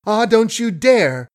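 high, frantic warning; panicked cry. A narrator's reading. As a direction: cry out in terror. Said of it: "she panted".

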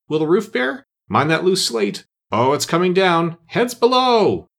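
bustling workers. Acted. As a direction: crowd shouting orders on the roof. Crowd of animals with ladders.

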